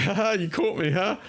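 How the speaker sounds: high, sheepish laughing line; sheepish caught laugh. Shown as a demonstration. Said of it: "This is like".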